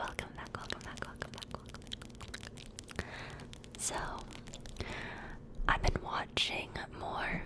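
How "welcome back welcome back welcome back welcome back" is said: fast aggressive asmr. Shown as a demonstration. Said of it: "Fast and aggressive".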